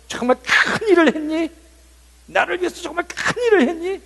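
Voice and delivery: high, loud questioning voice of God; voicing God. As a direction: ask as God, pitch rising and loud. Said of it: "하나님이 뭐라고 그러실 것 같아요". (하나님 목소리로 높고 크게 묻기)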